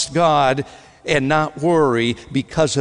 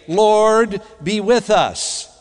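higher, slow mock prayer; raised, measured imitation of a prayer opener; imitated public prayer; 5 semitones higher, slower than usual. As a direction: imitate an intern praying aloud, drawn out. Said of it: "They like to get up and say".

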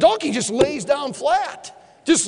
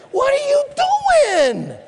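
high, slow shout; angry high shout; shouting at the donkey; 11 semitones higher, slower than usual. Acted. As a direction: yell it at the beast, drawn out. Balaam beating his donkey.

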